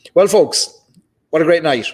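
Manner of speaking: bright, high and loud, welcoming the audience; cheery host opener. Real, not acted. Host greets the live stream folks, loud and upbeat. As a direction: open big like a showman.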